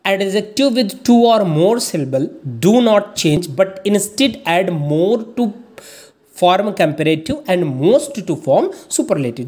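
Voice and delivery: reads the English rule out word by word, very slowly; slow dictation reading. Acted. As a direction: dictate the rule slowly so students can copy it.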